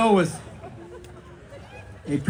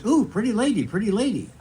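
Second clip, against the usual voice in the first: a light, higher squawky parrot coo; 3 semitones higher than usual. Acted. Parrot greeting the lady who bought it, lightly higher. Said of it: "The parrot goes".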